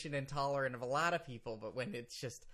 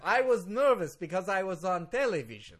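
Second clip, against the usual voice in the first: put-on defensive Russian-accented excuse; heavy Russian accent; 2 semitones higher, 4 dB louder than usual. Lawyer explains television appearance, heavy Russian accent. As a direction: lawyer excusing himself in thick Russian English. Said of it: "you're way more Russian now".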